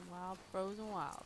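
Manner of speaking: drawn-out echo. Real, not acted. Repeating the phrase back, drawn out.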